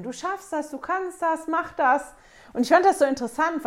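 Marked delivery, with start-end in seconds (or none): 0.0-2.1 imitated cheering, higher pitch. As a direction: voice the disciples egging him on. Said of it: "würden die anderen Jünger Petrus zujubeln". (anfeuernd nachgespielt, höhere Stimme)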